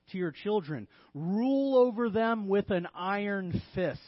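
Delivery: emphatic mock-tyrant orders; deliberate, punched tongue-in-cheek commands; sarcastic. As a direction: urge bad parenting with full mock conviction. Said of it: "I'm being a little sarcastic".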